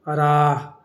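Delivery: راہ with long aa ending in an audible h; sounded final h. Shown as a demonstration. Teacher listing examples for students, sounded final h. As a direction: let the ہ close راہ clearly. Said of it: "جو تلفظ میں آئے".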